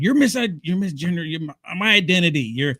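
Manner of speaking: lightly acted indignant protest; mildly upset. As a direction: stumble through a mock complaint. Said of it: "Sometimes they get upset".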